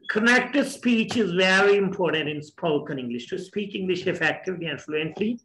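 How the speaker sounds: slow, careful English explanation; slow lecture reading. Shown as a demonstration. Teacher reading the rule to the student, slow and careful. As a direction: read the rule out slowly for learners.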